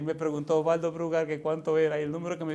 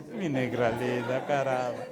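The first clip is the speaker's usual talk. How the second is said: slow, tender, drawn-out endearment; 2 semitones lower, slower than usual. Retold or imitated. Mother softening toward her daughter, slow and tender. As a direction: savour each word lovingly. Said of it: "así mismo que ella me dice".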